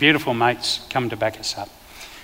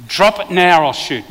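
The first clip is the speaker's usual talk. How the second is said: retold scream; 3 semitones higher, 3 dB louder than usual. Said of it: "we're screaming it".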